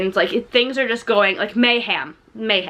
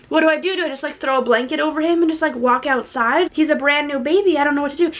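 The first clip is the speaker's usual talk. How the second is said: retold panic; 4 semitones higher, much faster than usual. Acting out first-time mom's panic.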